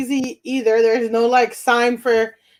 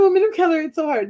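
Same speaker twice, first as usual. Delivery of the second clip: higher-pitched, self-mocking complaint; playful higher-pitched whine; mock lament; 5 semitones higher, faster than usual. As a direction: parody your own plea, voice lifted. Repeats own line in mock lament.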